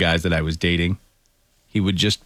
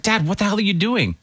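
retold shocked question; 13 semitones higher than usual. Retelling own shocked question to dad.

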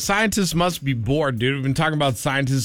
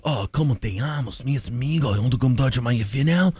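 put-on Mexican Spanish accent; 4 semitones lower, faster than usual.

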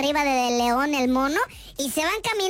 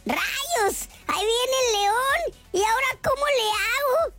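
higher, hammed-up panic; panicked little dog; 6 semitones higher than usual. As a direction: play a cornered Chihuahua in mock panic. Chihuahua sees the lion coming. (perrito asustado, voz más aguda)

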